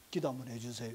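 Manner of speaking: low, soft imitated plea; imitated prayer request. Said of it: "이렇게 해가지고 기도받고 가는 사람들".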